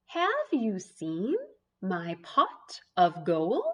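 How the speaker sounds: slow, lightly voiced leprechaun question. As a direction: ask as the leprechaun, gently. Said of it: "I can read that fluently".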